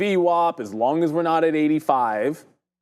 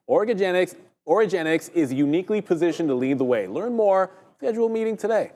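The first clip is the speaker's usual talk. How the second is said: sponsor read with a higher, lifted pitch; 4 semitones higher than usual. Acted. Host reads sponsor spot to viewers, ad read. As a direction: read it out like an announcer's promo.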